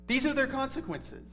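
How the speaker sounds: high, exasperated protest at God; sermon voicing Jonah's indignant complaint to God, high and exasperated; mock indignant Jonah. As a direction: play Jonah outraged at God's mercy. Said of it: "it's as if he's saying to God".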